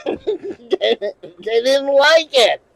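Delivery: stretched out slowly through laughter; can't hold back the laugh. Real, not acted. Laughing while retelling reaction.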